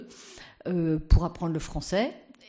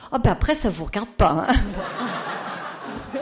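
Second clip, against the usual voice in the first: laughing tease; 3 semitones higher, 3 dB louder, much slower than usual. Retold or imitated. Playful punchline, laughing.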